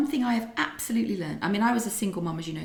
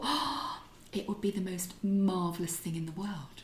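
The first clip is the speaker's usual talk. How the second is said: gasp, then hushed, breathless wonder; rising excitement; 5 dB quieter than usual. Retold or imitated. Mother imagining a grandchild, hushed thrilled wonder. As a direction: gasp and marvel under your breath. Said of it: "I felt my excitement level go".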